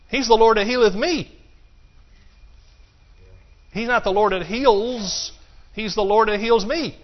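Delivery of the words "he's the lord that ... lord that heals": ordinary delivery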